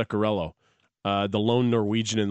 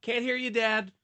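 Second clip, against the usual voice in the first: whispering; 10 semitones higher, 4 dB quieter than usual. Pretend. Mocking the whispering dad.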